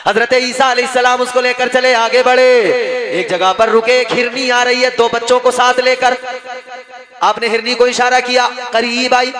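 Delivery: loud, ringing sermon storytelling; full-voiced preacher narration; preaching. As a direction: preach the tale out to the crowd. Preacher tells miracle story.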